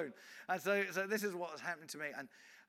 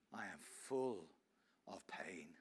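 hushed whisper; 11 semitones lower, 10 dB quieter, much slower than usual. Retold or imitated. Woman voiced in hushed confession.

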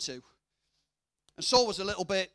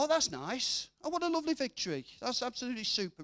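mock glib praise; 3 semitones higher, faster than usual. Preacher mocking readers who float over Bible stories, glib cheer. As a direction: toss it off like a shallow reader. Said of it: "and go".

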